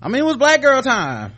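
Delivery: laughing, high and loud. Real, not acted. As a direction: laugh through it. Laughing reply.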